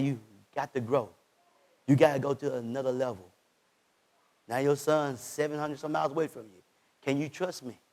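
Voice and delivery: low, soft voice of God; God speaking gently. Acted. Preacher voicing God to himself, low and soft. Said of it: "God said".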